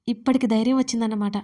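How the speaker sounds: quick, mocking jab; sarcastic. Surya mocking Dharani's new courage, sarcastic. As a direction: needle her with sarcasm. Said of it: "అన్నాడు వెటకారంగా సూర్య".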